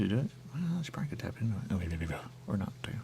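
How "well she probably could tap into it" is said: fast unvoiced whisper, a little higher. Real, not acted. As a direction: rush it out in a whisper. Hushed aside while chatting.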